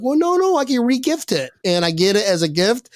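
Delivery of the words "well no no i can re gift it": mock eager protest. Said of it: "I'm like".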